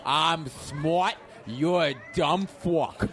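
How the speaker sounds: put-on slurring belligerent drunk; a drunk picking a fight; angry drunk guy. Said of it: "do the angry guy drunk".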